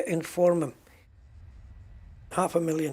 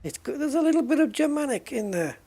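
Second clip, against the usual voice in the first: amused excitement; 10 semitones higher, 4 dB louder than usual. Real, not acted. Reacts to the NPC's German accent.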